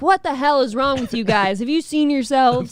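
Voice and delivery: stern cop scolding brawlers. Retold or imitated. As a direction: scold them like a tough cop. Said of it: "be like".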